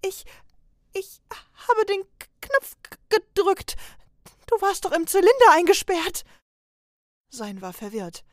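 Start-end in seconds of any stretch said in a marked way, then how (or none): 0.0-6.2 very high, loud tearful stammer; scared apprentice explaining himself to his angry trainer; frightened stammer. Acted. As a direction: stumble through the excuse, close to tears. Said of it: "Sein antwortete verängstigt".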